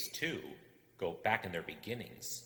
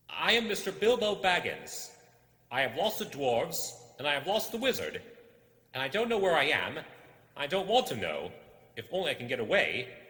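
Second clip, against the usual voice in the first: much higher, louder, fearful hobbit voice; frightened hobbit; 8 semitones higher, 11 dB louder than usual. Acted. Bilbo, lost in the dark, answers the creature in fear. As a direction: blurt it out, lost and scared.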